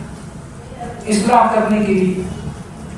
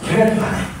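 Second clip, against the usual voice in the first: whispered warning, pitched higher; whispered emphasis; 5 semitones higher than usual. Shown as a demonstration. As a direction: whisper it like a serious warning to children. Teacher repeats the rule. (سرگوشی میں تنبیہ)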